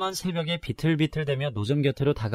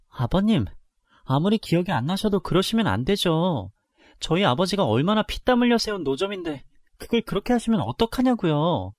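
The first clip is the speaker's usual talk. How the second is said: angry protest; 5 semitones higher than usual. Acted. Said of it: "너무 화가 나서 시아버지를 기다렸다가".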